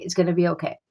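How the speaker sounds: a hint of a soothing spirit voice. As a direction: soothe them like a calm inner voice. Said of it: "it was a very soothing energy".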